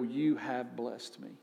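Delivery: slow, sincere prayer building in strength. Shown as a demonstration. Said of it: "we can just pause for a moment and go".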